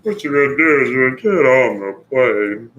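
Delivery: a hint of the Soarin' ride guide welcoming riders; mock welcome spiel; ride announcer impression. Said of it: "I need to get that voice down better".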